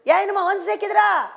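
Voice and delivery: put-on shouting at the kids, loud and high; mock angry yell. Preacher mimicking a parent yelling at her kids.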